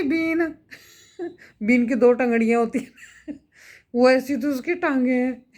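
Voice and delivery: bursts of laughter between words; giggling at the comparison; laughing. Real, not acted. Vlogger comparing Sachin's legs, laughing mid-sentence. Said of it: "मेरे को तो बहुत हंसी आ रही है".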